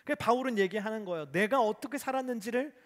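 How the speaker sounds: high, loud preaching push; rising preaching. Acted. Preacher to the congregation, loud rising exhortation. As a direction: drive the words home with force.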